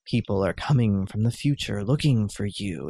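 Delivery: a hint of a mystical seer, low-pitched; mystical sorceress. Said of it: "I love it when she's like".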